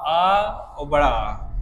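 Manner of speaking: drawn-out आ and बड़ा आ, each vowel held long; slow vowel demo. Shown as a demonstration. Teacher slowly sounding out आ and बड़ा आ for students. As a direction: stretch आ then the long आ slowly for the class. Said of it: "देखो हमारे कंठ से क्या बोला जाता है?".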